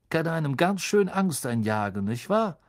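chatty bus conductor relishing a scare; Stan the conductor. Acted.

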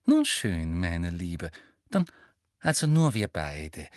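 low, condescendingly motherly. A narrator's reading. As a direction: coax as a would-be kindly mother. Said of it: "mit mütterlicher Stimme".

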